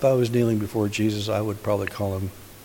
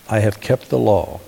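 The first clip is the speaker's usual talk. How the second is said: firm, louder declaration; unflinching; 5 dB louder than usual. Retold or imitated. Man answering Jesus about the commandments, unflinching. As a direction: declare it without a trace of doubt. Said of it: "he doesn't even flinch".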